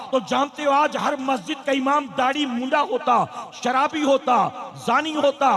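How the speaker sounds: thundering pulpit delivery building to a peak; fiery preaching. Acted. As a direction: preach it hard to the crowd. Preaching builds to full force.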